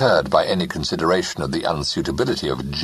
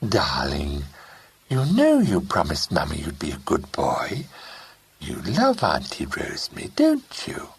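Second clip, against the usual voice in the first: coaxing voice. Acted. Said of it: "said in a coaxing voice".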